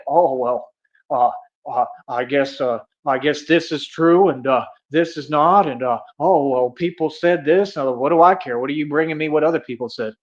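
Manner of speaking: a lightly voiced, hesitant official, fumbling with uhs; mock stammering excuse. Mocking the officials who dodge him, halting and unsure.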